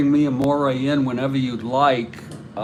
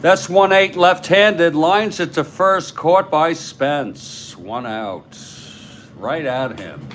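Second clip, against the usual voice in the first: play-by-play call. Acted. Host calling the tabletop game for viewers, energetic play-by-play. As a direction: call the action like a radio broadcaster.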